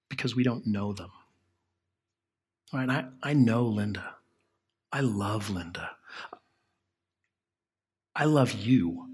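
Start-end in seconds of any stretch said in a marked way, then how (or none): 4.9-9.1 hushed aside to the congregation; whisper. Real, not acted. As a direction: say it under your breath, fondly. Tender aside about Linda.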